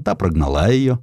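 ordinary delivery

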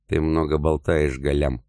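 slow menace. Acted. Emir slowly threatening his boastful adviser, menacing. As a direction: warn him slowly so he knows it's serious. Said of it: "с угрозой проговорил эмир".

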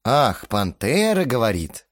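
slow mocking drawl; lightly voiced sarcasm; drawn-out smirk. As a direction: smirk and stretch the words. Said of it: "усмехнувшись, протянул я".

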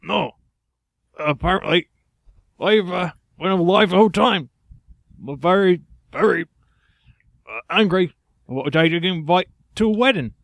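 high put-on English bird; unconvincing English accent. Bird explains about angry parents, high English accent. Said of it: "very Englishmen".

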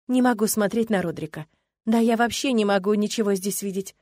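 ordinary delivery

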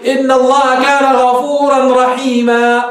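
slow, measured recitation of the verse; Quran recitation. Shown as a demonstration. Teacher reciting a Quran verse to show the pause, slowly. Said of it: "مش هيك بتوقف في القرآن الكريم؟".

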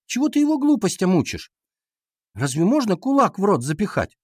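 high-pitched indignant scolding. A narrator's reading. Катя scolds Ваня for teaching nonsense, indignant. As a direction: reproach him as an outraged girl. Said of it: "возмутилась Катя".

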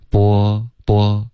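波 as an exaggerated, rounded "bo"; slightly exaggerated mouthing. Shown as a demonstration. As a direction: overdo the rounded opening of 波. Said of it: "会有一点儿夸张".

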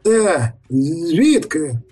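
sharp high startled question; startled mayor. A narrator's reading. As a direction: recoil at the monster.

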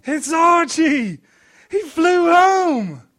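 Dave, overjoyed. A narrator's reading. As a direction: crow it out like a delighted child.

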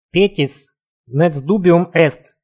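slow, hoarse, feverish Latin; wheezing. Acted. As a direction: rasp out the words weakly. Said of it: "прохрипел незнакомец". (хриплый шёпот больного)

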